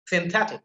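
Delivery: "synthetic" with the middle THE emphasized; stress on THE. Shown as a demonstration. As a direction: lean on the second syllable of "synthetic". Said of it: "ta sound that is emphasized".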